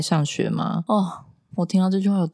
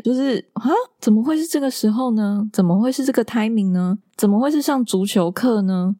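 exasperated disbelief; 6 semitones higher than usual. Retold or imitated.

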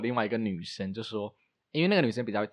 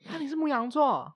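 pitched way up in disbelief; surprised. Acted. Friend acts out people learning her sign, surprised. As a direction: gasp it out as a real shock. 很多人会很讶异.

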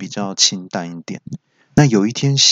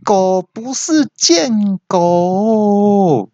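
exasperated yell; 11 semitones higher, much slower than usual. Retold or imitated. Speaker yells at coworker over the misheard word, high and stretched. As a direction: yell the correction in frustration. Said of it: "就大叫说".

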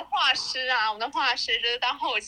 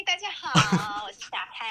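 variety show host. Acted. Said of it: "为什么那么综艺啊？".

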